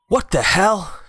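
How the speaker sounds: high startled exclamation; shocked gasp. Acted. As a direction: blurt it out in shock. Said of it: "gasped Sir Alex".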